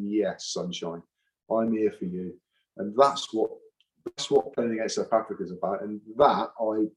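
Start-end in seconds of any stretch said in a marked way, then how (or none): 0.0-2.3 stare down the opponent, unfazed; defiant taunt. Retold or imitated. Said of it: "looking down the barrel of the gun and going".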